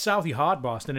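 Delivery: affected Southie Boston accent; put-on Boston accent; Bostonian accent. Shown as a demonstration. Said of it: "that was a Bostonian accent".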